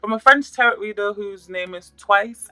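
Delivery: a hint of a French accent, slow; lightly playing a French tarot reader, drawn out; mock French accent. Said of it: "I'm going to try to talk like her too".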